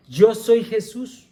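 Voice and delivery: slow, drawn-out quote of a divine voice; voz divina citada. Retold or imitated. Cita la voz divina a Saulo. (voz divina citada, lenta y pausada)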